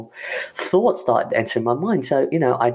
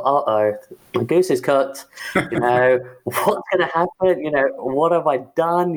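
mock panic; 2 semitones higher than usual. Recalling the CIO's sudden meeting request, in mock panic. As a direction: replay the moment you thought you were in trouble. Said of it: "naturally the panic had set in".

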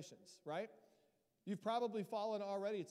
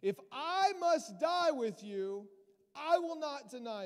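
empathetic; 7 semitones higher, 10 dB louder, slower than usual. Acted. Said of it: "but he said empathetically".

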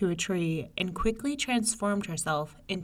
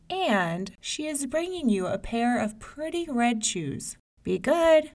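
mother voice; 5 semitones higher than usual. Acted. Mother instructs May May.

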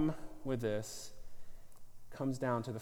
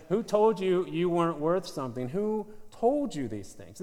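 urgent pressing question; 5 semitones higher, 6 dB louder than usual. Acted.

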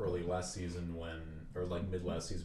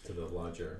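Boston accent; 5 dB quieter than usual. Real, not acted. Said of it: "my Boston accent".

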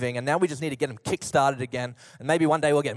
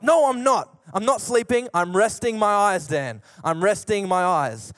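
little sister protesting to her brother, mock cranky; cranky denial; 2 semitones higher than usual. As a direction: insist you're awake like a grumpy little sister. Cranky sister denying she's asleep.

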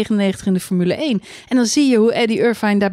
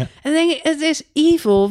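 mock outrage; 7 semitones higher than usual. Mock outrage at team orders.

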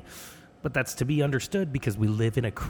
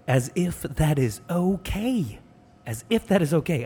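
higher-pitched comic disbelief; mock incredulous; 7 semitones higher than usual. Boyfriend reacts to a shared toothbrush, mock incredulous. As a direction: repeat it as if appalled, playing it up. Mock outrage at girlfriend's answer.

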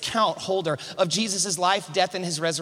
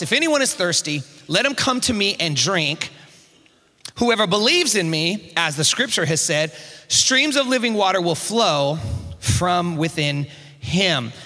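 slow, raised proclamation of scripture; preacher declaiming a verse in a raised voice; loud voice; 3 dB louder than usual. Acted. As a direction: proclaim it deliberately to the crowd. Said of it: "said in a loud voice".

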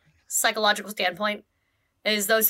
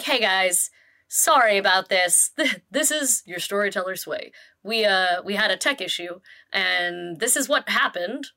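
deeper, slower storyteller voice; lower, slow and deliberate storyteller; Sway impression; 4 semitones lower than usual. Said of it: "rather impressed with the speaker's Sway impression".

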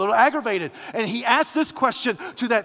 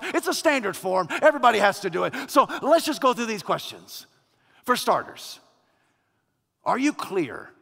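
calming; 2 semitones lower than usual. Acted. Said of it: "calms down the other angel and says".

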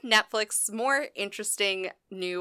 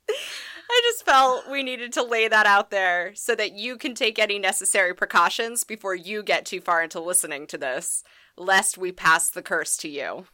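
glitchy digital robot voice. Real, not acted. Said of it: "she sounds a little bit like a robot in my headphones".

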